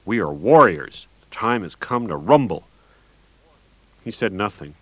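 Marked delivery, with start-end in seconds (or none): 0.0-2.6 barked battle cry. Acted. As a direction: bark it like a war cry. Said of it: "I barked at him".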